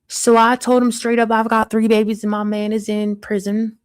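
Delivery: lightly put-on Southern country accent, storytelling; a hint of rural Southern accent, chatty. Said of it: "how do you like my country accent?".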